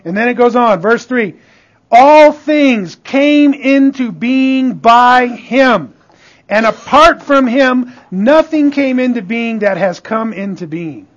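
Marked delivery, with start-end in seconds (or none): 1.9-11.1 slow, weighty start easing into steady reading; emphatic scripture reading. Real, not acted. Preacher reading John one to the congregation, declaimed with weight. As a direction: proclaim the verse, leaning on its opening. Reads verse aloud to congregation.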